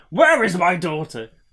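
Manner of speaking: loud, big, hulking burly warrior voice. Discussing a book, picturing a father who can't see his daughter; big burly warrior voice. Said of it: "this big burly warrior going".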